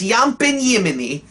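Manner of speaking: Scandinavian Viking voice, y for j; mock Viking accent; hammed-up Viking cartoon voice; Oleg the Viking. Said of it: "talks like this".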